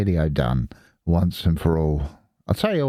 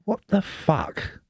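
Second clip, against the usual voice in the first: exasperated outburst; 10 semitones higher, 3 dB quieter, slower than usual. Real, not acted. Ranting about AI internet.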